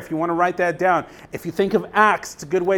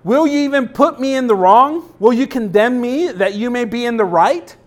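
a higher, louder challenge from God; God confronting Job, louder; 5 semitones higher, 5 dB louder than usual. Acted. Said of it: "He says".

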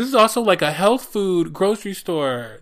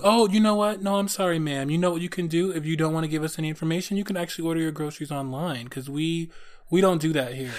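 mock clerk. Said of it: "what would you have said?".

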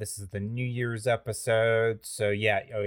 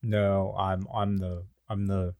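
put-on chill skater kid; 2 semitones lower than usual. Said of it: "I'm the very chill skater kid".

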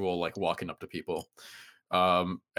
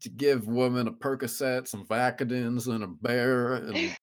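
redneck impression; 2 semitones higher than usual. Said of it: "I wish that impression was".

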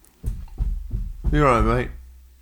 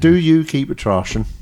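Norfolk accent; 3 semitones higher than usual. Shown as a demonstration. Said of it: "speak in a Norfolk accent".

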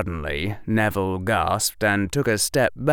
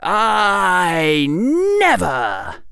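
indignant; 10 semitones higher, 6 dB louder, much slower than usual. Acted. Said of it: "voice full of indignation".

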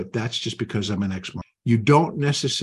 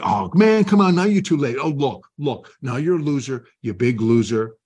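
a hint of a mocking jeer, louder; taunting inner voice; 3 semitones higher, 4 dB louder than usual. Inner voice taunting the late trader, lightly mocking jeer. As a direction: needle the listener like a schoolyard bully. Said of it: "that same voice that say".

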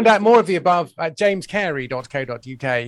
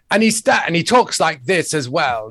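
very strange voice; 4 dB louder than usual. Acted. Guest showing how the disguised man talks, very strange voice. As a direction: stretch the words out in a strange character voice. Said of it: "got this very strange voice".

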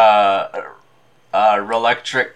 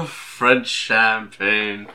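slow, grand French champagne; Orson Welles voice; much slower than usual. Retold or imitated. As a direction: savor each word like the ad.

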